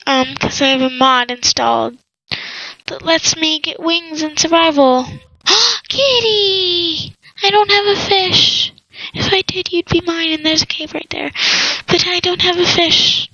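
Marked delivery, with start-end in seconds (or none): 5.4-8.7 excited gasp. Real, not acted. Spots a cat in game.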